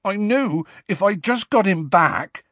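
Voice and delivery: high-pitched tearful explanation; close to tears. A narrator's reading. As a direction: plead through rising tears. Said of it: "sounding close to tears himself".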